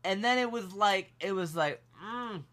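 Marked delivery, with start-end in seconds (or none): 2.0-2.4 soft mock moan; short, quiet hum of longing, hammed up; imitated moan. Waitress eyeing the customers, imitated soft moan. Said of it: "There was a lot of moaning".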